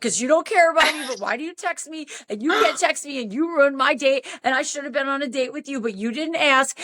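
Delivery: high-pitched run-on mock tirade; going off. Tipsy woman blaming Dan for ruined date, flirty indignation. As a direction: heap accusations one on another. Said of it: "I went off on him".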